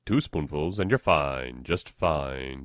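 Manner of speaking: put-on old-time radio sponsor voice; radio announcer read. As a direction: set up the episode like a serial. Sponsor read and scene lead-in.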